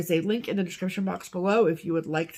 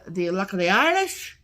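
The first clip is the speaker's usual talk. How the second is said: a quick, hammed-up Irish accent on the title; terrible Irish accent; 3 dB louder than usual. Host announcing the March pattern theme in a mock Irish accent. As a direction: put on a bad Irish lilt as a joke. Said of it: "That's a terrible accent".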